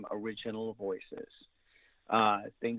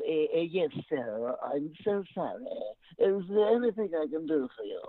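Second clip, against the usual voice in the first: higher, fussy and apologetic butler; stuffy higher-pitched butler; 4 semitones higher than usual. Shown as a demonstration. Voice actor demos the butler he should have done, stuffy and higher. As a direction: make him real stuffy. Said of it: "I should have done the higher-pitched".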